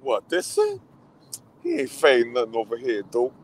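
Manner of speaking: put-on a lighter second take of the tough-girl line; replaying the character again. Fan repeating line to friend, lighter mock voice. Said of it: "She's like".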